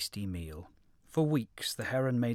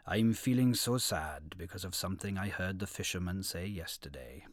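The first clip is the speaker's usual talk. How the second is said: put-on low, sorrowful old heron; 4 semitones lower than usual. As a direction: sad old heron voiced lower. Heron laments in quoted speech.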